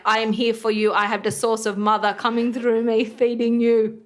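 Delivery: placenta voice. Retold or imitated. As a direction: promise it like a devoted guardian.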